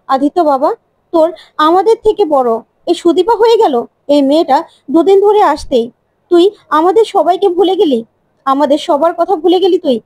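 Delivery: aggrieved elder pleading with the son; hurt reproachful mother. Acted.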